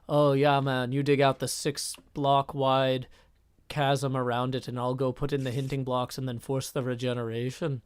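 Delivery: lightly put-on German accent; measured, even delivery in a shaky attempt at German accent; amateur German accent drifting towards Irish; bad German accent. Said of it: "I don't think this is a very good German accent".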